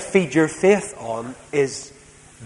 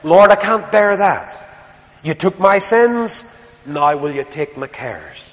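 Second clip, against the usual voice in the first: loud, high plea to the Lord; impassioned prayer cry; fervent prayer; 5 semitones higher, 6 dB louder than usual. Acted. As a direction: cry it out to God, slowing down. Praying aloud to the Lord.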